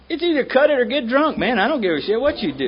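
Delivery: a hint of a tough old man laying down the law; mock gruff retort. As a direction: toss it off like a blunt old sponsor. Bill's blunt retort, retold.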